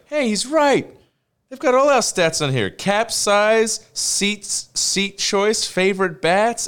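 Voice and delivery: high, loud, excited exclaiming; excited discovery. Retold or imitated. Character finding the baseball spy data, high loud excitement. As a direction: shout the find like a giddy cartoon character. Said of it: "it's just like".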